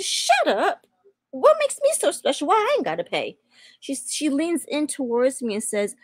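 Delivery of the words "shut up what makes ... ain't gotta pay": stunned disbelief. Retold or imitated. Cashier says she needn't pay.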